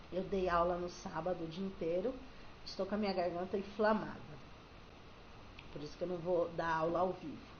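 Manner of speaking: low, strained voice from an inflamed throat; sore throat voice. Real, not acted. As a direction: speak through a sore throat. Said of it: "com a garganta inflamada".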